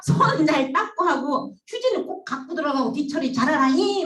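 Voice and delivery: drawn-out mock scolding; teasing warning. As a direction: nag the boys slowly for a laugh. Girls teasing, slow and loud.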